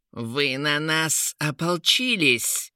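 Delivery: drawn-out accusing shout; hammed-up outraged king; slow angry cry. A narrator's reading. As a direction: cry it out slowly and hurt. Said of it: "закричал Кейн".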